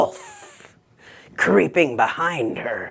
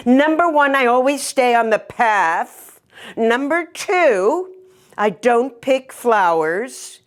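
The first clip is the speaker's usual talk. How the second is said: put-on higher, prim little-girl voice reciting rules; higher, firm little girl listing her rules; 4 semitones higher than usual. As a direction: sound like a stubborn good little girl. Girl voiced in told story.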